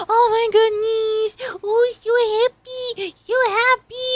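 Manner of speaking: high, loud delighted squeal; gushing. Real, not acted. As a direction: gush with joy. Gushing, so happy.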